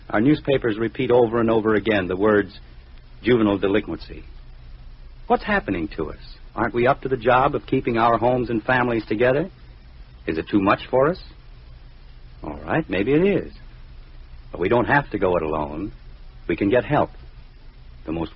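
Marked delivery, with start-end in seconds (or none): none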